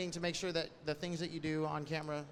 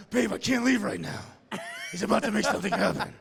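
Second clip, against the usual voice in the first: excited; 3 semitones higher, 5 dB louder than usual. Retold or imitated. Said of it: "and I'm like".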